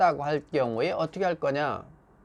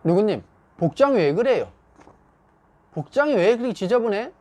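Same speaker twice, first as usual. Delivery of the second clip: mildly scolding, higher-pitched question; reproche; 5 semitones higher, 4 dB louder than usual. Acted. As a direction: pick on an employee's untidy look. Acted boss scolding over clothes.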